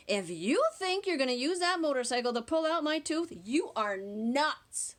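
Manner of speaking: put-on a cheeky boy; child's voice. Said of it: "and said".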